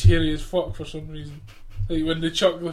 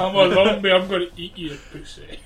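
zombie; 2 semitones higher, 5 dB louder than usual. Pretend. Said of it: "he was pretending it was a zombie".

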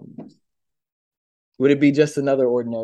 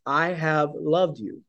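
God's tender declaration; 3 dB quieter, slower than usual. Retold or imitated. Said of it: "Yahweh saying to the Israelites".

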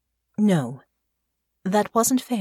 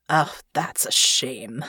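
put-on older father voice; 4 semitones lower, slower than usual.

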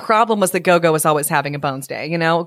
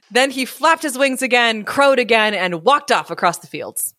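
measured, expressive storyteller; story narration; 5 semitones higher than usual. A narrator's reading. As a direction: read it aloud like a picture book. Reads story aloud.

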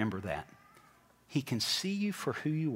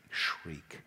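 whispered shriek; 9 semitones lower, 7 dB quieter than usual. Acted. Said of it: "fell with a shriek".

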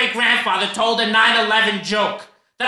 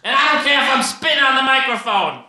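back to shouting. Acted. Snaps back to yelling.

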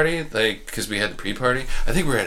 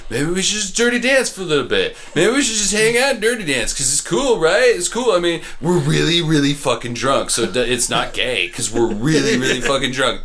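put-on drunk buddy voice; 5 semitones higher than usual. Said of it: "he's like".

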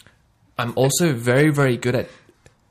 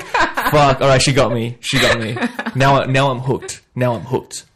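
playful hooked; 5 dB louder than usual. Retold or imitated. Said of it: "And I'm like".

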